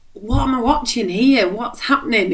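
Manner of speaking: bewildered. Retold or imitated. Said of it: "just going".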